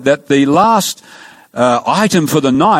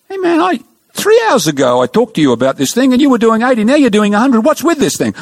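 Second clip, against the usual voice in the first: exasperated cop; 10 semitones higher than usual. Retold or imitated. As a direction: play the fed-up cop catching him again. Exasperated cop scolds speeder again.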